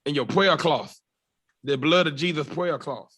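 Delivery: lightly mocked infomercial preacher; a hint of televangelist salesman; Curtis Thomas. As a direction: rattle off the offers like a TV pitchman. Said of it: "That's the Curtis Thomas".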